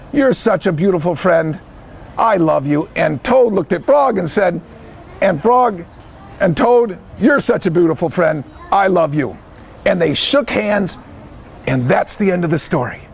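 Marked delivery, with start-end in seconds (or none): 0.1-2.9 low, heartfelt affection; gentle storybook declaration of love; tender. Acted. Toad tells Frog he loves him. 7.2-9.4 low, sincere affection; heartfelt storybook reply to a friend; tender. Acted. Friend returns the loving words.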